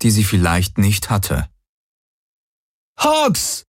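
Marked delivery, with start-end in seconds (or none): 3.0-3.6 high calling shout. A narrator's reading. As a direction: call his name, much higher. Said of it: "rief sie".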